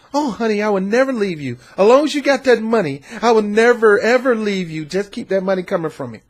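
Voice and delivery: fawning gold-digger wife. Acted. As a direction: coo at him like a wife who loves his money.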